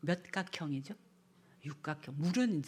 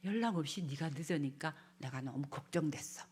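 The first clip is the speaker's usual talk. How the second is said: gentle I-message; 4 dB quieter than usual. Shown as a demonstration. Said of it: "나를 전하라는 거예요".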